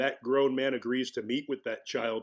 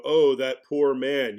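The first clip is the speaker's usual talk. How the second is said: mock pity; 6 dB louder, slower than usual. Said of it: "it's easy to look at this guy and go".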